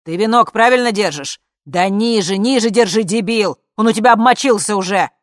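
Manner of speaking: loud, high frantic yelling; shouting. Acted. Bodyguard on the screen yelling at a colleague, loud and frantic. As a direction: bellow orders in panic. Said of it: "Слышались крики".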